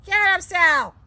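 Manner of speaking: high, loud egging on; excited urging. Real, not acted. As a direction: hype the dog up. Urging the dog, repeated.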